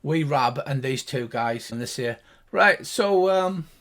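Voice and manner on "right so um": lightly voiced, higher gnome; chatty little gnome, a bit quicker at the end; gnomish voice. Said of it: "the two high-pitched gnomish voices".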